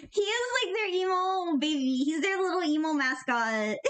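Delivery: giggling through the words, pitch jumping up; laughing. Real, not acted. Streamer giggling to chat about the emo mascot. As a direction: laugh while you talk about him. Laughing while gushing over Sino.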